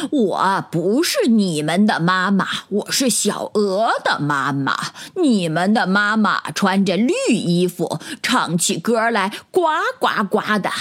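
lightly voiced mother goose; a hint of a kindly mother goose. 大白鹅笑着说. (略带鹅妈妈的角色感)

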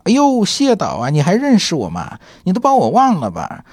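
high, playful mock-sweet voice; teasing Ni Ping. Ni Ping teases Xie Jin at a party, high playful mock-sweet. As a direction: lightly act out Ni Ping teasing the old director.

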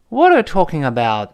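"What are you talking about" run together; "talking about" joined without a gap; linked words. Shown as a demonstration. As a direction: link "What are you" into one flow. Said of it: "注意这连读啊".

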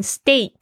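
"steak" said as stayk with a long A, not eek; steak with an A sound. Shown as a demonstration. Teacher correcting learners who say the EA as E, "steak" with a clear A. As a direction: say "steak" rhyming with make. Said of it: "它是发A的声音".

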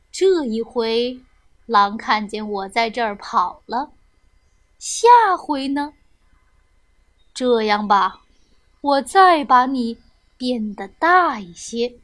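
lightly voiced old man, pondering; a hint of a low, musing old wizard; kindly old grandpa.

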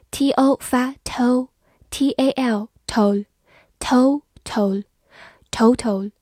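slow, drawn-out total; slow reading. Shown as a demonstration. Teacher slowly modelling total for students. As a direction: stretch out each syllable.

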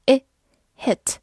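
short, lax "ih" in "I" and in "hit". Shown as a demonstration. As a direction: say "I" as a quick ih, then "hit" with that short vowel. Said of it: "字母I发短音I". (I和hit都读短促的短元音)

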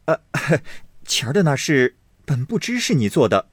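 quick, eager placating; young master hurriedly excusing himself; hasty young master. Acted. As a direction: rush to smooth it over. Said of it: "宝玉忙笑道".

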